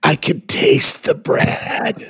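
slow laughing delivery. Acted. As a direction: say it while cracking up.

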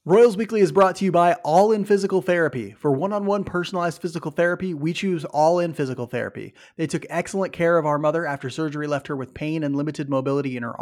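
upbeat sponsor read. Acted. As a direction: pitch it like a radio spot. Reads sponsor ad.

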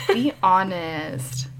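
breaking into a giggle mid-phrase; laughing whisper. Shown as a demonstration.

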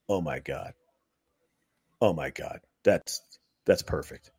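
low, hushed and amazed; awed whisper. Retold or imitated. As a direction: breathe it out in quiet awe. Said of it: "and he went".

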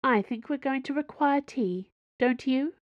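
high, genteel Cardinal voice; a polite but commanding Cardinal. A narrator's reading. Cardinal character voice.

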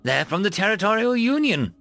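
high, excited announcement; exclaiming. A narrator's reading. Insectoid tells captain whose ships arrived, exclaiming. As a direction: exclaim the surprising news. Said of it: "exclaimed the insectoid".

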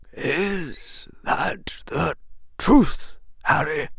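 very slow, whispered question; old headmaster asking slowly and softly. Acted. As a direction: draw each word out in a hush. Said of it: "Dumbledore said slowly".

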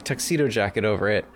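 normal talking voice

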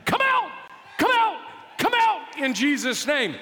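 a hammed-up exorcist's rebuke; casting out a devil. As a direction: rebuke the spirit with full force. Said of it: "I start casting the devil".

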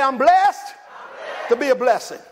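shouted high, blessed lifted; preached call. Shown as a demonstration. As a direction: lead the church to shout it back.

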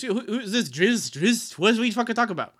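high, hammed-up bafflement; mock indignant kid. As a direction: demand an explanation as a confused kid. Third kid demands an answer.

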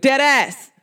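New Jersey slash New York accent; punchy New York-accented delivery. Shown as a demonstration. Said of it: "New York accent".

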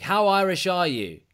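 lightly hammed-up quiz host intro; quizmaster announcement. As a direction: announce the quiz title slowly, stretching it. Host introduces his quiz like gameshow.

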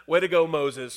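mean it this time, no irony; sincere praise. Real, not acted. Preacher praising Moses sincerely, warm approval. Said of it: "Moses didn't just unload on their sarcasm".

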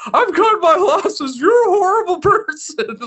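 Jiminy Cricket done as Jimmy Stewart. Retold or imitated. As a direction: stammer politely like Jimmy Stewart. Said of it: "Jimmy Stewart voice".

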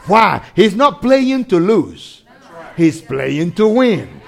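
emphatic preaching. Real, not acted.

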